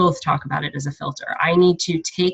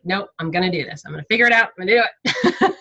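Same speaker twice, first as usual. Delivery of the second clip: retold determined resolve; 3 semitones higher, faster than usual. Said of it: "I was like".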